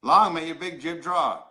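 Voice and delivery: slow Newfoundland accent for learners; measured Newfoundland demonstration; Newfoundland phrase. Shown as a demonstration. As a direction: repeat it slowly in a Newfoundland accent. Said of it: "I'll say it again".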